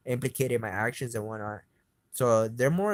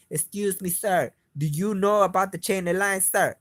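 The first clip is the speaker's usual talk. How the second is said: higher-pitched, exaggerated politeness, getting louder; mock-polite questioning; 6 semitones higher, 5 dB louder than usual. Asking sir about the chain of line, mock-polite. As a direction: push the mock courtesy up high and loud.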